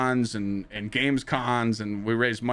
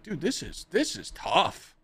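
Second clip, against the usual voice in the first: weary complaint; 7 semitones higher, slower than usual. Retold or imitated. Losing viewers, complaining.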